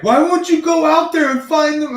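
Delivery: high, loud whiny demand to the cats; imitating his daughter. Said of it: "daughter's like".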